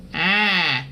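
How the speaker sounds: bright nasal twang on ah; short twang demo vowel; twangy ah. Shown as a demonstration. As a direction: sing a pinched, twangy ah. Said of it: "a twangy sound".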